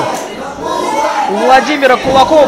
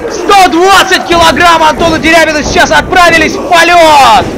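wrestling commentator. Real, not acted. Live wrestling match commentary peak.

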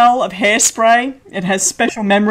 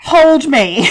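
put-on higher, louder pleading cry of a drunk; mock drunken sob; 5 semitones higher, 4 dB louder than usual. Drunk husband begging wife for a hug, mock sob. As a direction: whimper it like a sorry drunk begging for comfort. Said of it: "console him as he's crying".

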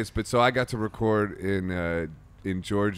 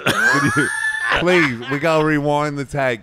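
exaggerated cockney-ish English accent, higher and louder; mock English accent; 5 semitones higher, 8 dB louder than usual. Producer to Paul after a bad take, hammed-up English accent. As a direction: ham up an English producer losing patience. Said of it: "Did you slip into an English accent?".

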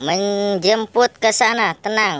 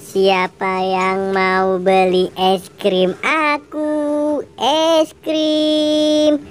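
hawker's call; 3 semitones lower, much slower than usual. Acted. Vendor calling out wares.

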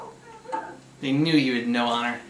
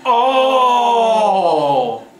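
shocked shout; 9 semitones higher, 9 dB louder than usual. Real, not acted. Reacting to a brutal game punch.

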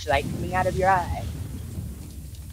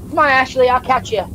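chipmunk voice; 6 semitones higher, 4 dB louder than usual. Real, not acted. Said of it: "I sound like the chipmunk".

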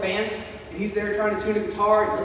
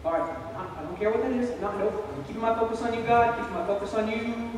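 nervous prayer focus; 5 dB quieter than usual. Retold or imitated. Nervously praying despite frightening noise.

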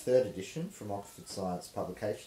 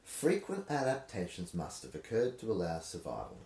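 rhythmic reading. Shown as a demonstration. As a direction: read the prose in a sing-song rhythm. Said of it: "I'll see if I can manufacture a rhythm out of it".

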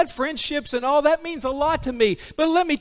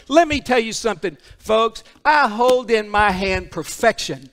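emphatic preaching. Real, not acted. Preacher declaring Scripture perfect to the congregation, emphatic preaching. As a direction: preach it with forceful conviction.

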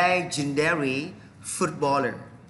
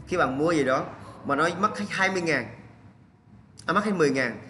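ordinary delivery

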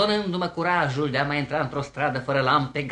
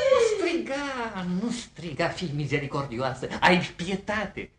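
pleading. Acted. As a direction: implore mercy, urgent then hushed. Suitor begs her not to shout.

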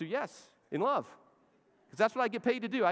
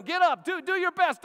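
high, loud urging shout; corner man yelling; 13 semitones higher, 8 dB louder than usual. Retold or imitated. Corner man yells at his fighter mid-fight, loud shout. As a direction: bellow at him to get up. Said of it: "He's yelling at him".

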